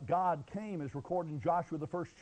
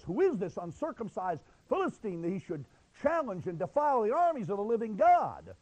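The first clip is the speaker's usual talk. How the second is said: mildly indignant challenge, rising louder at the end; 2 semitones higher, 3 dB louder than usual. Acted. David challenging the giant Philistine, mildly indignant. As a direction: build toward righteous outrage. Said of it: "David becomes indignant and says".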